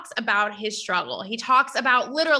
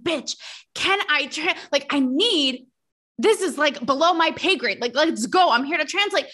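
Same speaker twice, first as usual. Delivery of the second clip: slightly higher, mock exasperated complaint; exasperated translator; 3 semitones higher than usual. Host imagines the translator sweating on stage, mock exasperated. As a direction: voice a fed-up interpreter, lightly hammed-up.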